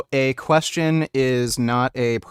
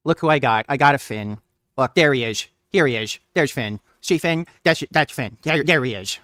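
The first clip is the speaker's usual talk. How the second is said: louder, bright call to the dog; happily showing off the puppy; excited dog greeting; 2 semitones higher, 4 dB louder than usual. Real, not acted. Greeting his dog Finn.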